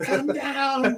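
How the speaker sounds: high, laughing call-out.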